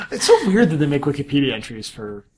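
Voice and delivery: laughing through the words. Real, not acted. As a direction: chuckle while speaking. Laughs at the Wikipedia entry.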